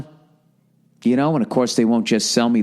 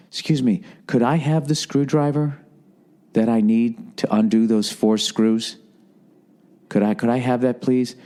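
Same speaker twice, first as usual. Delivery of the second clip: put-on polite customer, slightly raised pitch; politely pleading, with an edge of sarcasm; mock-polite request; 2 semitones higher than usual. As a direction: ask with exaggerated, measured politeness. Acted polite request at the dealership.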